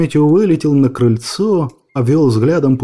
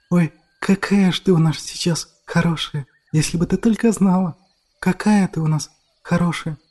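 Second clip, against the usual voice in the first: put-on fond little girl; 4 semitones higher, 4 dB quieter than usual. A narrator's reading. Girl praises grandmother.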